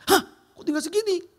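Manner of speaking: shocked. Retold or imitated. Wife reacts to the empty bank account, shocked. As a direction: pitch jumps high in disbelief.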